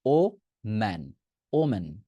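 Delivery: ও, ম্যান apart, then ওমেন joined; slow o... man, then omen; syllable-split woman. Shown as a demonstration. Teacher builds the singular for students, o-men. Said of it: "ওমেনের উচ্চারণ করেন".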